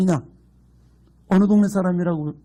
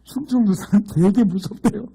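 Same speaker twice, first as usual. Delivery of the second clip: laughing; 3 semitones higher than usual. Real, not acted. Punchline with laughter.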